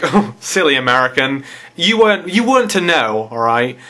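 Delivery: mock-pitying, talking down; condescending. British commenter to a supposed American, condescending. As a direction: feign sympathy for a clueless foreigner. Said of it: "they're being quite condescending".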